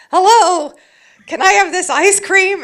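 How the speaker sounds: chirpy, wacky falsetto; ditzy character voice. Retold or imitated. Ordering ice cream in character, in a bright falsetto. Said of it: "fluffy pink sweater".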